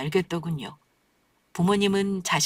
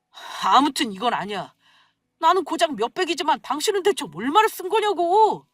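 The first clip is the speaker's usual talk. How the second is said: narrated yelling; 5 semitones higher than usual. A narrator's reading. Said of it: "소리 지를 일인가".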